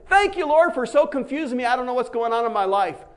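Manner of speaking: high, bright burst of thanks; mock cheerful praise; joyful thanks. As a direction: sing out thanks despite confusion. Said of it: "like Paul and say".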